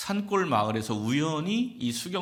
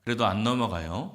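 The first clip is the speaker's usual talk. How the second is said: ordinary delivery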